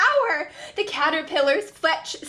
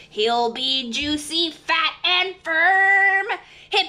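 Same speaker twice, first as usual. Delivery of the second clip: slow croaking crow; slower than usual. Acted. Crow's croaking chant.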